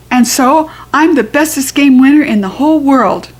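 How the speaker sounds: put-on high eager kid chatter; bursting to tell her friend; excited little girl. Junie B telling Grace excitedly.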